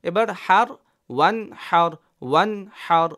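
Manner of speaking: ওয়ান হার with no nasal hum on the n, quick; no nasal hold. Shown as a demonstration. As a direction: join ওয়ান to হার cleanly, no ghunnah. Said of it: "কোনো গুণনাও করিনি".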